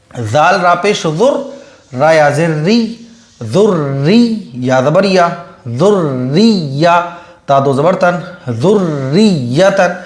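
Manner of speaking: slow, drawn-out syllable-by-syllable recitation; qaida recitation. Shown as a demonstration. Teacher to students reading the qaida, slow sing-song spelling. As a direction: spell each syllable out slowly for students to follow.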